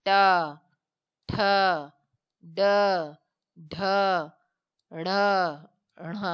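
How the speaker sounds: each letter said clearly, tongue curled back: "ट", "ठ", "ड", "ढ"; retroflex consonants demo. Shown as a demonstration. Teacher to class, sounding out the retroflex letters "ट ठ ड ढ" one by one. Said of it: "अब मूर्धा से होगी".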